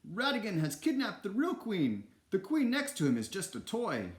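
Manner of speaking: high, urgent announcement to a crowd; shouting. A narrator's reading. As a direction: call it out so all the crowd hears. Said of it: "Basil shouted".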